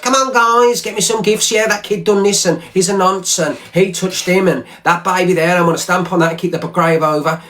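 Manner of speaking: lightly mock a streamer working his viewers; mock-imitating the rival egging on his crowd. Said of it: "sits behind his crowd".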